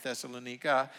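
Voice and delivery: Thessalonica said thess-uh-luh-NEE-kuh; alternative pronunciation. Shown as a demonstration. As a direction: say Thessalonica with "ee" in the stressed syllable. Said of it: "You can call it".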